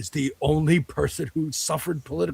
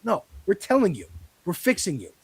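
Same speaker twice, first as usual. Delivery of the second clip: heated rant; 4 semitones higher than usual. Real, not acted. Heated political rant at listeners.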